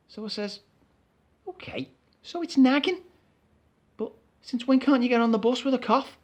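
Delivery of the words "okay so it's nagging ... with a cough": exasperated. Acted. Arguing with driver.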